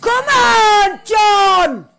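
loud call, urging; urging shout. Real, not acted. Gamer urging a player, loud call. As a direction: shout it at the screen.

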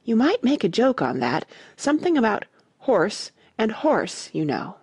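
a lightly voiced tiny speaker at her ear; a hint of a very small voice; extremely small voice. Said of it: "an extremely small voice".

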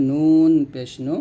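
নুন পেশ নু said slowly; letter drill; slow demo syllable. Shown as a demonstration. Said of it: "নুন জিহ্বার আগা তার বরাবর উপতলার সঙ্গে লাগবে".

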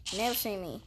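low, quiet gravelly-free Batman growl; hint of a Batman impression. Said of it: "I'm Batman".

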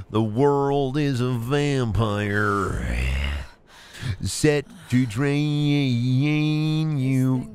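dramatic narrator. Pretend. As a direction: intone it like an ominous trailer. Dramatic quote while gaming.

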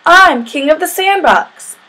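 high, slow boastful yell. A narrator's reading. Sammy claims the sandbox from Kevin, yelling. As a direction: proclaim it like the sandbox's bossy ruler. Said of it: "Sammy yelled when he saw him".

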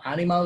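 "Animal" said as written, AH-nee-mahl; spelling pronunciation. Shown as a demonstration. Teacher explaining spelling to students, "Animal" with open a's. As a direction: read "Animal" with Spanish vowels. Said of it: "es la forma como se escribe".

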